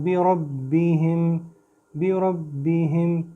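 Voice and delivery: बिरब्बिहिम with a thick, full ra; heavy ra. Shown as a demonstration. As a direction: say बिरब्बिहिम slowly, ra made heavy. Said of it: "मैं मोटा कर रहा हूँ".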